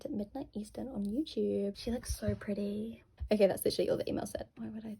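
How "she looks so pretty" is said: slow unvoiced whisper; whispered gushing. Real, not acted. Fan whispering over a singer's photo. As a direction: breathe it, starstruck.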